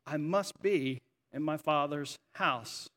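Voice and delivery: even, understated question, slowing at the end; matter-of-fact. Acted. Jesus replying to his mom, gently matter-of-fact. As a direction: say it simply, without any rebuke. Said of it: "very matter-of-factly says".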